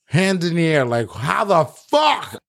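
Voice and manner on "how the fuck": higher and drawn out slowly; stunned disbelief. Retold or imitated. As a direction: gape at the impossible fall. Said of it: "this man's looking at me like".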